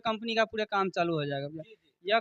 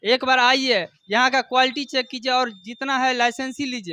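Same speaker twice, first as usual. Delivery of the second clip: hard sell ad; 2 semitones higher, 4 dB louder than usual. Acted. Shopkeeper urging viewers to visit.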